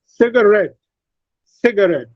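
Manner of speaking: "cigarette" with RETTE carrying the main stress; stress on last syllable. Shown as a demonstration. Teacher models "cigarette" twice, stressing RETTE. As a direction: lighter CIG, stronger falling RETTE in "cigarette". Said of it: "has secondary stress and ret has primary".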